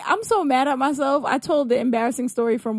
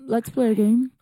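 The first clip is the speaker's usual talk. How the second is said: Saw voice; 3 semitones lower than usual. Shown as a demonstration. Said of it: "like, the Saw voice".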